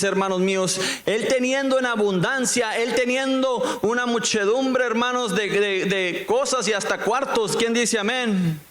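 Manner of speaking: prédica aguda y sostenida; prédica enfática. Real, not acted. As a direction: insiste ante la congregación elevando el tono. Predica con tono elevado. (predicación animada, en tono alto)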